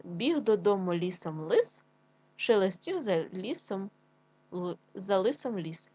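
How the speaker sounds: slow, deliberate tongue twister; slow teacher read for children; slow careful reading. Shown as a demonstration. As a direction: read it slowly, word by word. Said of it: "Ще раз".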